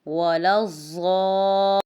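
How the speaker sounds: ولا الضا with the ضا stretched long and loud; madd muttasil. Shown as a demonstration. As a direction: hold the ا after ض. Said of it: "ضا پہ مد متصل ہو رہی ہے". (ضا کی مد متصل کھینچ کر)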